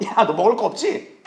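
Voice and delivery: slow, stretched-out teasing; mock taunting. Imagined Lord needling hungry disciples, mock taunting. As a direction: tease slowly, as if rubbing it in. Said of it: "주님이 약 올리려고 물으셨겠어요".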